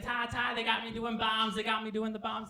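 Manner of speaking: high-voiced, eager announcement; Chevy. Chevy tells Ty about the bomb job, high and eager. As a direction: chirp it high and steady. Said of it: "he's like".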